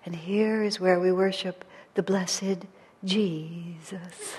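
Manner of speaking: slow, hushed, breathless reverence; breathless whisper. Retold or imitated. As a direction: breathe it out slowly in awe. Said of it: "in a kind of breathless whisper".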